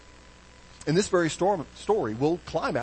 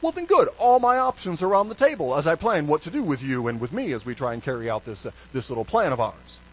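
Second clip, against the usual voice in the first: pirate voice; 4 semitones higher, 4 dB louder than usual. Retold or imitated. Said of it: "Almost like saying".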